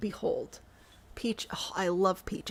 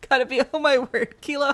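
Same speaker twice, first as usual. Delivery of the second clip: excited outburst; 5 semitones higher, 10 dB louder than usual. Real, not acted. Exclaims at chat.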